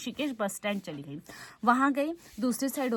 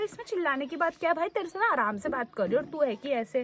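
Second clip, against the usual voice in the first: fast, irritated comeback, a bit higher; annoyed retort; 4 semitones higher, faster than usual. Retold or imitated. Scolding the conductor for shouting at her, quick and irritated. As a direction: rattle it off, fed up with his yelling.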